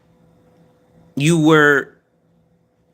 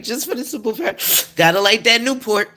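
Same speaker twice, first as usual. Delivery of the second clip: mock smoker; 8 semitones higher than usual. Mocks smoker craving a Newport.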